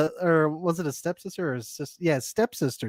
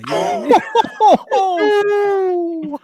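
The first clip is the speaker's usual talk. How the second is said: put-on Texas accent; 6 dB louder, much slower than usual. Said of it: "That's the accent we're doing".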